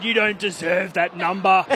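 loud, slow mock telling-off; spray the rookie, drawing the words out; retold scolding. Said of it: "he just sprayed me".

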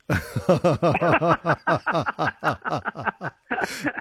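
long, high cackle; cackling laugh. Real, not acted. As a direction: cackle helplessly at your own story. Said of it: "I'm still cackling at that".

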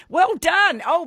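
high, loud cheer of praise; loud, high-pitched delight; excited congratulations. Real, not acted. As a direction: congratulate them with a real burst of excitement. Host congratulates a correct guess.

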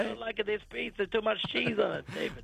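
hushed, husky Italian mobster. Pretend. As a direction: complain like a gangster about pizza. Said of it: "It works with this husky voice".

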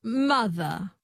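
"Mother" ending on a schwa; transatlantic dropped R. Shown as a demonstration. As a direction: copy "Mother" without its R. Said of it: "you drop the R and you make it a schwa".

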